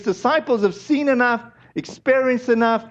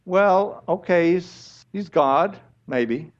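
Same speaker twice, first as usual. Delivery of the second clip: lower, trailing off into maybe; half-hearted doubt; 4 semitones lower, slower than usual. Acted. Preacher voicing a doubtful believer's answer, half-hearted. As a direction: concede it without conviction.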